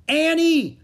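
high, loud shout of a name; desperate yell; crying out. A narrator's reading. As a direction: call out urgently, far above normal pitch. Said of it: "he shouted".

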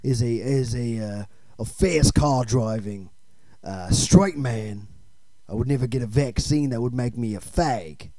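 lightly voiced tough-guy film star; action movie star. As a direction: play a halting, self-important action star.

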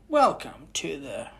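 lightly voiced spooky hotel guide, slow; a hint of a creepy bellhop greeting; hotel host. Vlogger imitating the ride's hotel guide, lightly voiced. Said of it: "I don't know how to do his accent".

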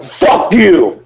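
high-pitched mock angry yell; mock outburst. Cook cursing a last-minute customer, in mock fury. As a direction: hurl it in comic outrage.

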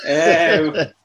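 fireworks noise. Retold or imitated. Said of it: "John's doing a firework impression there".

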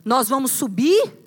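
Abraham to servants. Acted. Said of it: "Abraão fala assim com seus servos".

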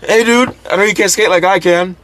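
imitating Tony Hawk. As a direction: ham up Tony Hawk as a chill surfer bro.

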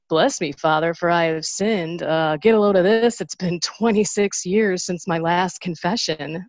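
jokey, breezy confession line; comedic tone. Retold or imitated. Woman to priest, lightening a long absence, comedic tone. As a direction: lighten it with comic bravado. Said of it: "saying it just like that in a comedic kind of tone".

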